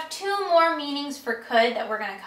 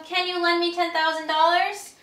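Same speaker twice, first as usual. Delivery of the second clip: higher, easy friendly ask with rising end; casual request; 6 semitones higher than usual. Shown as a demonstration. Close friend casually asking for the money, upbeat and easy. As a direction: ask like an old pal. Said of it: "They're being very close with you".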